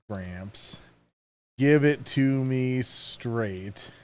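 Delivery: put-on slow, quiet old man voice; creaky grandpa giving advice. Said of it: "gonna be hard to do an old man voice".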